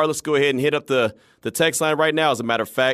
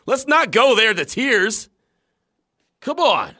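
higher, louder, laughing denial; sheepish laughing; 10 semitones higher, 4 dB louder than usual. Real, not acted. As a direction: laugh while brushing it off. Playfully denying he teared up.

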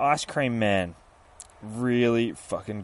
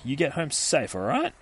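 chirpy ice cream man; 5 semitones higher than usual. Retold or imitated. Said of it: "the ice cream man's all like".

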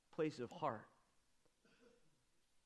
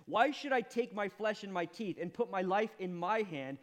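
loud, pleading, voice raised high; impassioned cry; 6 semitones higher, 7 dB louder than usual. Acted. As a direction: cry it out like a desperate man. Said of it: "he says".

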